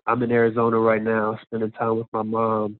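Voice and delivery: stuffy nose from allergies; nasal voice. Real, not acted. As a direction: talk with a blocked, nasal nose. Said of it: "so excuse my nasally voice right now".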